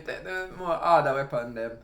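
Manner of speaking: imitated mother. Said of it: "She talking about".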